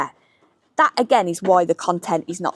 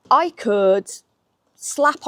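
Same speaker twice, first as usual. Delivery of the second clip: whisper; 4 semitones higher, much slower than usual. Real, not acted. Confessing a reckless habit.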